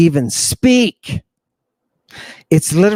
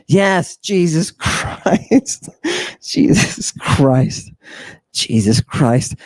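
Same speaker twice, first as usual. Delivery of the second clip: slow, drawn-out, fading moans of the name; mock ecstasy; slower than usual. At the mock ritual climax, slow swooning moans.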